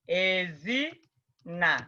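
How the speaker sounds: Ezina drawn out very slowly, syllable by syllable; slow demo word. Shown as a demonstration. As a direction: spell out Ezina slowly for the class. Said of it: "Like this".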